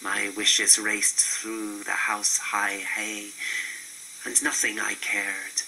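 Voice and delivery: ordinary talk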